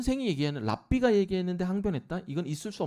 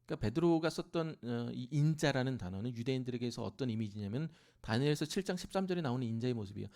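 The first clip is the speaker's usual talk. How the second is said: ordinary talk, nothing marked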